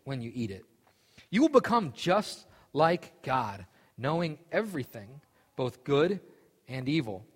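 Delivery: steady Bible reading voice; scripture reading. Acted. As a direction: read it like scripture to a group. Reads scripture aloud.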